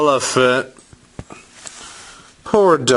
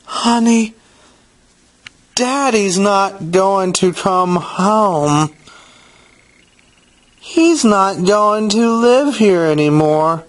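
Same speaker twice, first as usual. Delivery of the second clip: higher-pitched, gentle mother's voice, not hushed; mother speaking softly; 7 semitones higher than usual. A narrator's reading. Mother telling Casey about the divorce, mildly soft. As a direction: break hard news to a child gently. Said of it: "Casey's mother said softly".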